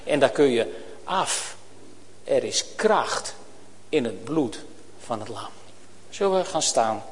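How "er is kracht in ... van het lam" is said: gentle, reverent hymn words; soft hymn quote. Real, not acted. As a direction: hush down into the hymn line. Closing hymn line.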